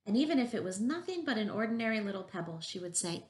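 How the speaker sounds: measured read-aloud with lilting emphasis; story narration. A narrator's reading. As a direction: read a picture book to young children. Reads a picture book aloud.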